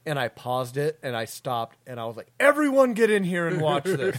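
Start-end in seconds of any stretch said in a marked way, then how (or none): 2.4-4.2 raised, higher urgent call; calling everyone in. Retold or imitated. To others in the house about the film, calling out. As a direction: call the whole household into the room.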